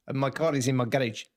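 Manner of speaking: mock South African accent on "garage". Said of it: "South African".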